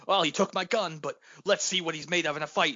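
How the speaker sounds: rally Chewie in a mild mock yell; mock Han yelling. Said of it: "like, yelling".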